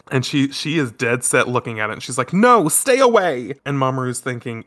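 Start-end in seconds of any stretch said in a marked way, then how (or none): 2.3-3.5 higher, louder, slowed-down frightened cry; panicked shout. Retold or imitated. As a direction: push them back in panic. She starts screaming again.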